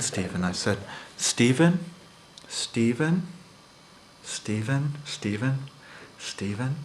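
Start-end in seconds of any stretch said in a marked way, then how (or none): 1.2-6.8 confronting coworker, calls fading; calling out, fading. Retold or imitated.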